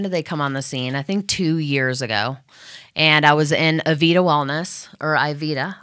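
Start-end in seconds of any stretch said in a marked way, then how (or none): 3.9-4.2 Avita said uh-VEE-tuh; "Avita" rhyming with pita; alternative pronunciation. Shown as a demonstration. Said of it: "however you say it". 5.1-5.8 Ivita said eye-VEE-tuh; "Ivita" with eye first, then VEE-tuh; alternative pronunciation. Shown as a demonstration. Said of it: "however you say it".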